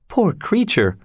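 high, pitying aside; pitying thought. A narrator's reading. Servant privately pities the grieving man, pityingly. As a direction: think it aloud with pity.

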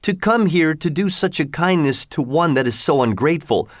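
a fisherman begging for his life; pleading fisherman. A narrator's reading. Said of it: "cried the fisherman".

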